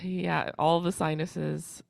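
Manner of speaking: slow, stuffy nose voice; congested. Real, not acted. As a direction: drag it out, sinuses blocked. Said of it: "some sinuses".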